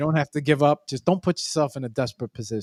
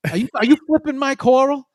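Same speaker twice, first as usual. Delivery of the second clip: mock suspicious; 6 semitones higher than usual. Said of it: "And I'm like".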